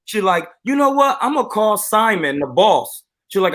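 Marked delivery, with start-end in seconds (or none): 0.6-3.0 lightly pitched-up imitation of an indignant woman; mock Karen. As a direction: mimic a Karen threatening to report someone. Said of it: "really having a Karen situation".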